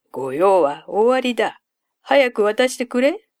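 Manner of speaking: loud, high urgent call; eager shout. Acted. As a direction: shout to hurry the boat. Traveler eagerly demands a crossing.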